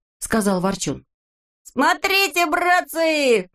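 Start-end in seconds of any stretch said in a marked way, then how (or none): 1.6-3.5 excited cry. A narrator's reading. Neznaika shouting to the brothers from the balloon, high and excited. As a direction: call the others to look, thrilled. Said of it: "закричал вдруг Незнайка".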